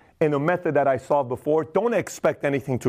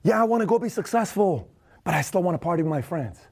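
mock torn friend voice; 3 semitones higher than usual. Voicing a torn wannabe.

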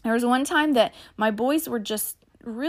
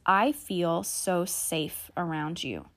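sincere reassurance; 3 semitones lower, 4 dB quieter, slower than usual. Shown as a demonstration. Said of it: "practical thing that you can say".

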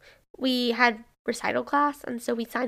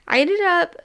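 laughing reveal; 6 semitones higher, 8 dB louder than usual. Real, not acted. Laughing reveal of changing major.

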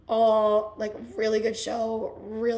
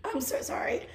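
hoarse, strained voice; 3 semitones higher, 6 dB quieter than usual. Real, not acted. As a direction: speak through a hoarse, tired voice. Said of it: "my voice is shot".

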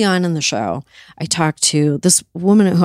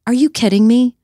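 exasperated disbelief; 6 semitones higher, 4 dB louder than usual. Real, not acted. Furious rant about administration officials.

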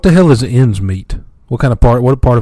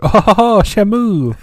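mock taunting chef laugh; 9 semitones higher, slower than usual. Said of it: "He's like".

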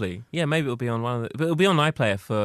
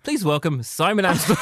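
imitated stage introduction; 5 semitones higher than usual. Acting the host introducing the comedian.

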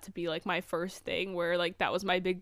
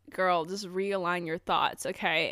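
slow self-reassurance; slower than usual. Retold or imitated. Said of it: "definitely was like".

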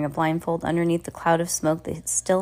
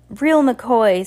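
high, loud little yell; 6 semitones higher, 7 dB louder than usual. A narrator's reading. Little Sunny yells to the crowd, high shout. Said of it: "Sunny yelled".

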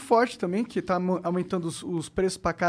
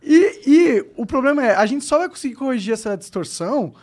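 sultry narrator; 2 semitones higher, 4 dB louder than usual. Acted. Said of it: "Uma voz aveludada".

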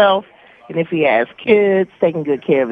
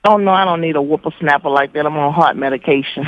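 joking; faster than usual. Real, not acted. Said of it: "has a great sense of humor".

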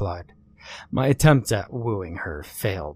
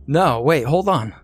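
calling after her; 4 semitones higher, 5 dB louder than usual. Acted. Calling after woman leaving.

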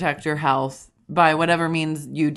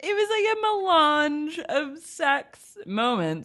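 excited; 10 semitones higher than usual. Real, not acted. Gushing about the video.

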